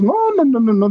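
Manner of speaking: squeaky high string of panicked noes; frantic no. Retold or imitated. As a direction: shoot way up in pitch, refusing in alarm. Manuel panicking inside. (negación aguda y alarmada)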